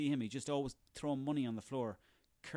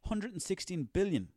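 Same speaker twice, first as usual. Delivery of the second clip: "Hundred" hit hard, much louder; stressed sum; 5 semitones higher, 6 dB louder than usual. Real, not acted. Ranting about Jeff's fortune, stressing "Hundred". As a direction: punch "Hundred and sixteen billion" in outrage. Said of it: "repeating the sum".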